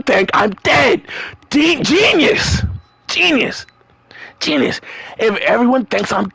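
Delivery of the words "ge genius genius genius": sarcastic genius. Real, not acted. Sarcastic praise of fake death plan.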